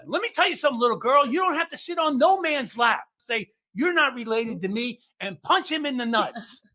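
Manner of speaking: mock preaching grandpa.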